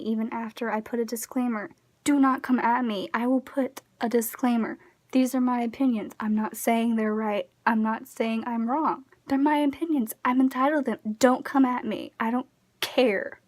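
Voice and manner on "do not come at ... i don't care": louder, firm don't-mess-with-me; defiant warning. Real, not acted. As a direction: lay down the law to commenters. Warning critics before giving opinions.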